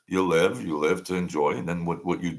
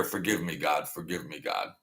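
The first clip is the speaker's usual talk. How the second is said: mock prayer; 4 semitones lower, 8 dB quieter than usual. Mock prayer after insult.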